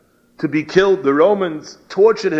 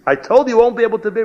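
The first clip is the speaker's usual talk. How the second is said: higher, louder and fast, pressing the point home; rising insistent rebuke; 4 semitones higher, 4 dB louder, faster than usual. Retold or imitated. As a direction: push harder on the repeat, almost exasperated. Eliyahu repeats rebuke, rising.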